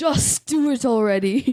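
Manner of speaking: stirring, rousing, grand, inspiring voice. Saying the line again as asked, to inspire a friend: super important, inspiring. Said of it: "say it, like, super important, like you're inspiring them".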